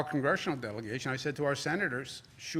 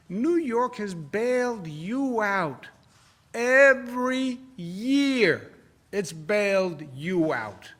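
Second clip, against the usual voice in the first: louder and slow, each word hammered; slow, louder indignant declaration; indignant, emphatic; 4 semitones higher, 6 dB louder, slower than usual. Real, not acted. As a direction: drive it home like a rebuke. Governor rebuts senator, indignant.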